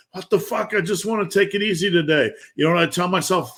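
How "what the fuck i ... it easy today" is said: whiny morning complaint. Retold or imitated. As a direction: sulk about getting up. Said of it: "And you're like".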